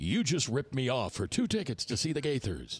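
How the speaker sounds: sing-song weatherman announcer delivery, radio style. Radio host repeating what he used to say on secular radio, radio weather voice. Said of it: "Can you do that voice some more?".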